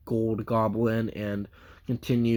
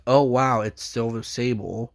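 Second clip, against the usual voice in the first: excited quote; 4 dB louder than usual. Retold or imitated. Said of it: "it was like".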